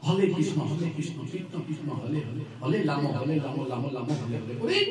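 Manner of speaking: put-on American devotee accent, r sung as l, "হরে" as "হলে"; mild American accent, "রাম" said "লাম"; foreign devotee accent. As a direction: chant the mantra with every r turned to an l, like an American devotee. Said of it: "র তার ল বলে সবসময়".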